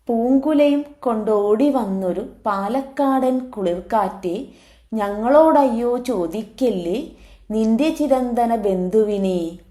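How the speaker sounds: lilting verse with a stretched ending; poem recitation. Acted. Teacher reciting the plea to the Palakkad breeze, poem recitation. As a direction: recite it in metre, drawing out the close.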